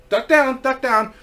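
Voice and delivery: mildly urgent call over the shoulder; urgent warning. Retold or imitated. Guide turns back to warn the little girl, urgent. Guide urging child to duck.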